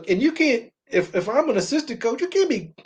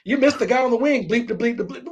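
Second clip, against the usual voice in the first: Pat Riley yelling; 4 semitones higher, faster than usual. Acted. Coach chewing out his player, mock yelling. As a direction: rattle off a bleeped-out coach's tirade lightly. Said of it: "Pat Riley yelling at Magic".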